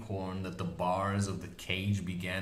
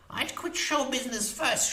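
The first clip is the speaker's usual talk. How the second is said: put-on high, snarling old crone; snarled witch voice; 5 dB louder than usual. A narrator's reading. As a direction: snarl it furiously. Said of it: "she snarled".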